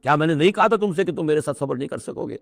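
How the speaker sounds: a touch of a reproachful teacher, lightly voiced; mildly chiding, as if to say told you so; understated rebuke with an emphatic question; pointed reproach. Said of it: "ذرا داغ کے انداز میں کہا".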